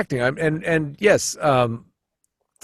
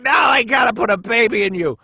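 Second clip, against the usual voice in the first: lion voice; 8 semitones higher than usual. Acted. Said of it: "He's like".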